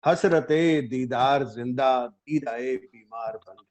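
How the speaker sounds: measured ghazal recital with held pauses; mushaira recitation. Acted. Poet opens a ghazal before appreciative listeners, mushaira recitation. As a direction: recite the couplet phrase by phrase.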